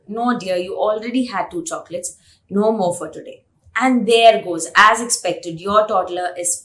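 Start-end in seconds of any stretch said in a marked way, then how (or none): 0.1-3.4 gently refuse, keeping it calm; calm gentle tone. Retold or imitated. Parent calmly refusing the toddler more chocolate, gentle. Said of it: "in the most calm and gentle tone possible".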